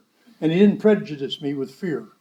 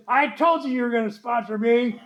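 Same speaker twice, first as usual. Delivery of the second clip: lightly voiced insistent woman, higher pitch; retold insistent woman; 4 semitones higher, 4 dB quieter than usual. Woman reminding her reluctant new sponsor, lightly voiced insistence. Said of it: "And then she says".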